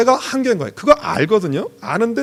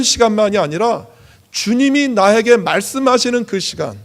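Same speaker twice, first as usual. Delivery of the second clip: raised, insistent pulpit voice; emphatic preaching; 5 semitones higher, 5 dB louder than usual. Real, not acted. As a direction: preach it with punched key words. Preaches to congregation.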